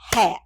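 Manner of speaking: "Hat" as one firm, short beat; one isolated, emphatic "Hat"; single counted beat. Shown as a demonstration. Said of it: "count out our syllables as we say".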